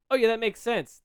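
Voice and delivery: high, loud quoted reaction; sudden realization. Retold or imitated. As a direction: exclaim it as the penny drops. Quoting own reaction.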